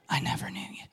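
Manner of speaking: God's verdict, hushed to a whisper; whispered rejection. Pretend. Preacher voicing God rejecting the boaster, whispered. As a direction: breathe it out, cold and final.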